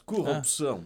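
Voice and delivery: Corrupção with a rolled Russian r; Russian accent. Shown as a demonstration. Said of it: "queria dizer em sotaque russo".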